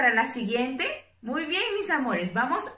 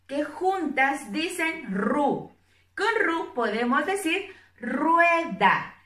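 slow syllable demo; 2 semitones higher than usual. Shown as a demonstration. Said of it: "la R con la U".

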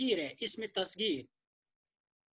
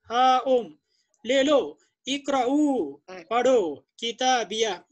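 joyful calling out; 9 dB louder, much slower than usual. Retold or imitated. Teacher acts joyful call.

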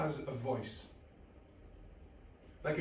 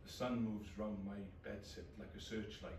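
flat depressed narration. Acted. Low depressed inner narration.

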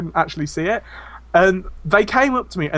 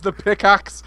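mock prophet; slower than usual. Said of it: "pretending to be this, like, prophet".

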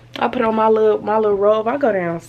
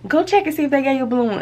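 quoting friend; 6 semitones higher, faster than usual. Retold or imitated. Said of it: "she was like".

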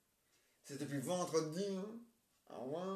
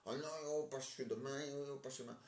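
a mild stage lament, half-sobbing; despairing wail; 5 dB quieter, faster than usual. Acted. Trapped character whimpers about waiting until tomorrow, mild stage sob. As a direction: moan it like you're stuck forever. Actor despairs at being stuck.

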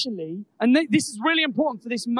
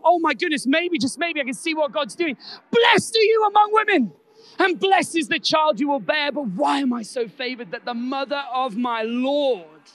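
loud excited cry; 2 semitones higher, 6 dB louder than usual. Retold or imitated. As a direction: let it burst out uncontainably. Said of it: "in a loud voice, in a wildfire voice".

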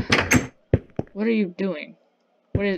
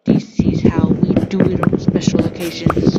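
a showy boast, louder; louder sing-song boast; 7 dB louder than usual. Acted. Bragging loudly to the camera about his building. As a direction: belt it out proudly.

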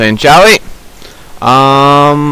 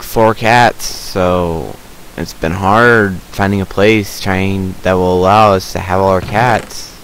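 usual speaking voice

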